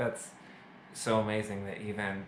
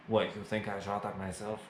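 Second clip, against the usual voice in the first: lightly put-on Russian accent; a weak Russian accent, tough guy; bad Russian accent.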